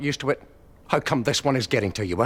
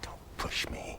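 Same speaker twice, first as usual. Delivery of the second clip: low warning; 13 dB quieter, much slower than usual. Acted. Warning whisper during quarrel.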